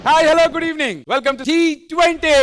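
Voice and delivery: hammed-up presenter greeting, stretched at the end; mock announcer welcome. (వ్యాఖ్యాతలా సాగదీసిన హుషారైన స్వాగతం)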